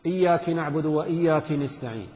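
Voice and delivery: both "إياك" said iyyaki, ending in i; feminine address error. Shown as a demonstration. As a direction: recite with kasra on each kaf of "إياك". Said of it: "للمؤنث".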